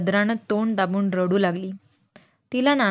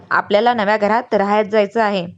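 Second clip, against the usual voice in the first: louder, level, settled fall on जायचं; calm confirmation; 7 dB louder than usual. Acted. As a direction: say it like the elder settling the matter. Grandfather calmly confirms to children.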